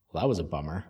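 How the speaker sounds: low, soft voice from nowhere; faint whisper. Acted. A faint voice on a waking player's lips, hushed whisper. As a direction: drop it low and hushed, barely there. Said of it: "you hear the faintest whisper".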